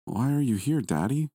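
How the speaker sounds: put-on high, questioning little-boy voice; young son. A narrator's reading. Son asks dad why he woke him, curious child. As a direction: ask like a puzzled small child.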